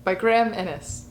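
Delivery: a light, hammed-up pirate accent, dramatic reading; terrible pirate accent. Vlogger reading an article aloud in a light mock pirate accent. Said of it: "I also hope you enjoyed my terrible pirate accent".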